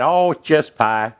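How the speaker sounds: slow, drawn-out Southern drawl on "just pie"; lightly imitating a Southern accent, stretched slow; mock Southern accent. Imitating how Southerners said just pie, mock Southern accent. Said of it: "Southern accent".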